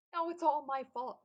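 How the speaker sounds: loud high tearful cry; tearful exclaim. A narrator's reading. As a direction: cry it out through tears. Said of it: "Mister Mincy exclaimed".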